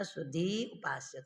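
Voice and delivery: सुधी उपास्य run together without a gap; said joined. Shown as a demonstration. Teacher showing the joined version of सुधी उपास्य. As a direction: say सुधी उपास्य in one quick breath. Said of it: "तुरंत बोलेंगे तब संहिता है".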